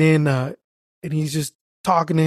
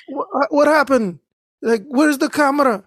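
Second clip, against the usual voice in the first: put-on high, agitated Arab-accented questions; imitated Arab accent; 10 semitones higher, 4 dB louder than usual. Arab driver questioning the mailman, high imitated Arab accent. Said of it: "He's an Arab dude".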